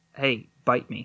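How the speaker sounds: whispering into the mic. Answering another speaker's teasing, whispering into the mic. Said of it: "stop whispering in the mic".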